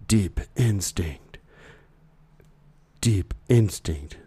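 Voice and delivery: slow, put-on Russian accent. Host joking about a cyber firm in a mock Russian accent. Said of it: "I wanted to do the Russian voice again".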